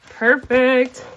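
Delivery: bright, loud, happy Perfect; pleased exclamation. Real, not acted. Counting cash, pleased exclamation.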